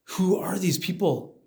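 astonished. Acted. Visitor asks the guide in white about the crowd, astonished. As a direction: ask it slowly, amazed.

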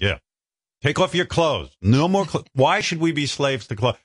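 high, exaggerated mock governor. Comedian mocks Texas governor for his cohost, high hammed-up voice. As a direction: ham up a reckless politician cheering everyone on. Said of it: "But Governor Abbott's like".

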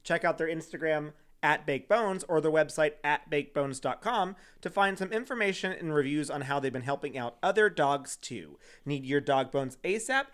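bright, upbeat sponsor read; podcast sponsor spot. Acted. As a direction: sell the dog treats like a host ad. Reads sponsor ad.

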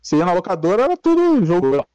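choppy, cutting-out connection; corrupted glitchy audio. Real, not acted. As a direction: voice breaking up over a bad line. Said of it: "tá cortando um pouquinho seu áudio aí".

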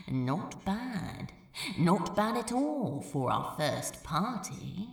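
Crow, pleased. Acted. Crow voiced in his own tone.

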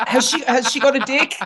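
lightly acted nosy wondering; puzzled onlooker. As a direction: imitate a baffled double take. Imitating people reacting to Larry.

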